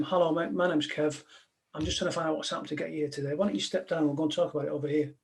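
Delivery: calm negotiator. Retold or imitated. Negotiator to the man on the roof, soft and fast. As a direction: talk a man down like a mate. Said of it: "I went out and I said to him".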